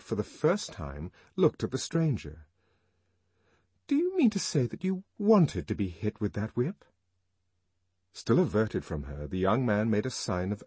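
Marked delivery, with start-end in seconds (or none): 3.9-6.8 higher, incredulous question; can't believe what you hear; Lenina astonished. A narrator's reading. Lenina astonished at the young man, high incredulous question.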